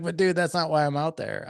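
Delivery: high, emphatic self-quote; emphatic protest. Retold or imitated. Dad explaining himself to his son, high emphatic protest.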